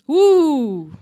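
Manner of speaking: loud hammed-up ooh of amazement; mock ooh. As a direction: gasp it like gossip news.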